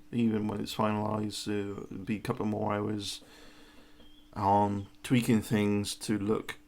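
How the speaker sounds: talking with a numbed mouth; speaking through numbing gel. Real, not acted. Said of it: "one side of my mouth is numb at the moment".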